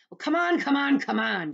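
very high, loud impatient shout. Acted. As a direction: hurry her up, yelling. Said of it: "shouted the centipede".

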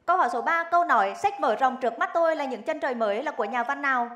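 crisp quiz host read; game show host. Acted. Host reads quiz question.

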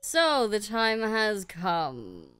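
Deku Tree voice. Acted. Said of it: "Yeah, you do it".

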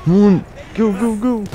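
high, exasperated "go, go, go"; urgent urging. Real, not acted. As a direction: urge a balking horse onward. Urging the game horse on.

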